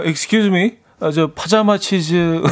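slow, hammed-up fancy English; mock posh English. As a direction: play the pretentious customer, slowly.

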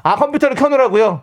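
high, indiscreet phone repeat; loud-mouthed coworker on the phone; too loud. Acted. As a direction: echo the secret request for all to hear. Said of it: "좀 조그맣게 얘기하고 있는 거죠?".

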